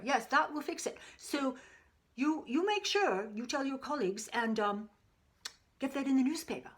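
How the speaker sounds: a jovial colleague spreading a remedy by phone; lightly voiced old doctor. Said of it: "listen in on a conversation with two doctors".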